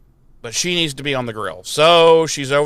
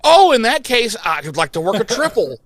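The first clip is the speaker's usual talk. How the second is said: sarcastic; 8 semitones higher, 5 dB louder than usual. Retold or imitated. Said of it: "she's like".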